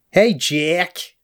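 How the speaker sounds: put-on Boston accent; quick Boston-accent impression; Julianne Moore. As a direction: call out in an imitated Boston accent. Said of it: "I want someone with a Boston accent now 'cause of Julianne Moore".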